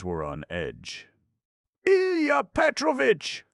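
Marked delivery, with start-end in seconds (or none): 1.9-3.4 much higher, loud urgent cry of the name; anxious call. A narrator's reading. Head clerk anxiously interrupting the raging assistant, calling out loud. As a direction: cut in sharply to stop him. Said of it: "The head clerk was beginning anxiously".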